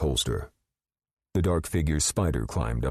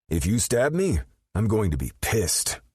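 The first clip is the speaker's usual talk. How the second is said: growled; 8 semitones higher than usual. A narrator's reading. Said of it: "Rip growled behind the mask".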